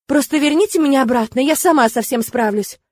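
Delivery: agitated outcry; exclaiming. Acted. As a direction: insist it in protest. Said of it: "воскликнула я".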